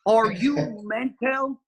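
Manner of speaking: slow, high-pitched Welsh impression; exaggerated Welsh mimicry, very slow; Welsh accent. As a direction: draw it out in a sing-song Welsh accent. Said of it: "The accent's perfect".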